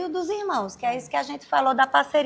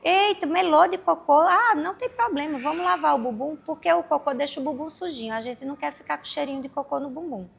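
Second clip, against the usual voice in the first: calm reassurance; 2 semitones higher than usual. Shown as a demonstration. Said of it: "sem muita entonação".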